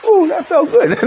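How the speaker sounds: very high, gleeful sigh of pleasure; playful high-pitched relieved aside; mock relief. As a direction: joke that it was satisfying. Jokes about relief after screaming.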